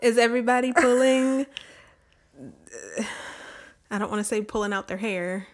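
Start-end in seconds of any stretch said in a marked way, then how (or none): 0.0-1.5 whisper yelling. Pretend. Loud outburst after whispering.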